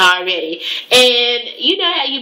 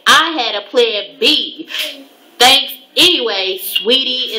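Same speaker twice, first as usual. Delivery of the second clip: fake sweet sass; 3 semitones higher, slower than usual. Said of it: "this was in all caps".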